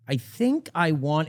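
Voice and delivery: slow, drawn-out mock British speech; slow motion. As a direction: stretch each word out slowly. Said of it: "He didn't talk in slow motion".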